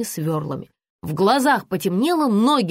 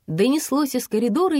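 ordinary delivery

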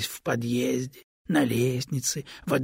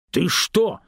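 louder, higher alarmed cry; startled protest; 7 semitones higher, 6 dB louder than usual. A narrator's reading. Stone afraid of being thought dishonest, alarmed outcry. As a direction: recoil at the suspicion. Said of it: "Камень испугался".

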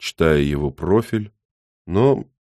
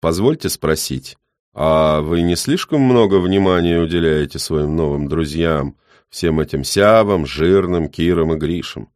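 put-on metallic old man voice; 4 dB louder than usual. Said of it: "новые металлические нотки".

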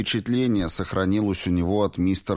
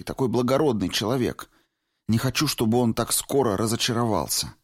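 put-on higher, worried young woman's voice; anxious young woman; 7 semitones higher than usual. A narrator's reading. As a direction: Valentina confessing her fear of Hastings, anxious. Valentina fearful.

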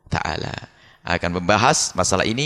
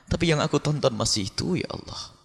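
humble confession; 3 semitones higher, 3 dB quieter than usual. Pretend.

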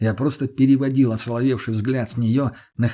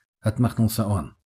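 ordinary delivery, nothing marked

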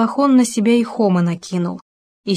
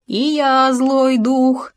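shouting evil spirit; 6 semitones higher, much slower than usual. A narrator's reading. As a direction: cry out like a wild spirit. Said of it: "вскричал Хома".

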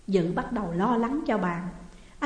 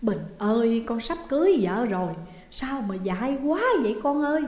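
mildly acted wailing cry; a mother's lament, lightly voiced. Bà Thái mourns her son, a mild acted wail. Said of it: "Bà Thái khóc òa lên".

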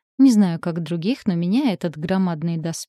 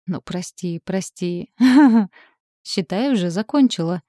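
laughing; 4 dB louder than usual. Acted. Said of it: "подавила неконтролируемые смешки".

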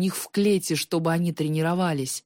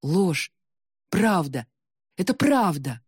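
shouting; slower than usual. Acted. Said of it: "снова закричал он".

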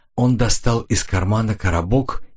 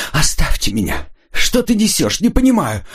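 moaning plea; 9 semitones higher than usual. Acted. Rita, crying and trapped, moaning at Corridan to let her go. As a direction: beg to be let go through tears. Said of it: "простонала она".

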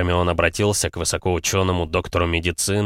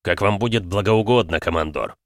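grumbling. Acted. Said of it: "проворчал моряк".

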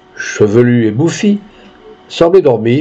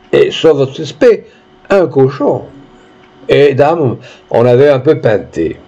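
a hint of rustic storyteller; lightly voiced peasant witness. Peasant explains himself to the judge, lightly rustic testimony. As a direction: tell it haltingly, like a villager in court.

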